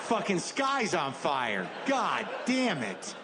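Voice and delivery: drawn-out disbelieving yell at the sky; slow awed shout at a burning sky; slow stunned shout. Retold or imitated. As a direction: shout it slowly, awestruck and dismayed.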